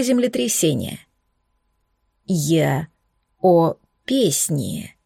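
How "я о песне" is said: slow, low, half-groaned, half-growled. Acted. The dragon Ocean answers, half groaning, half growling. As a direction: drag it out between a moan and a growl. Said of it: "наполовину простонал, наполовину прорычал".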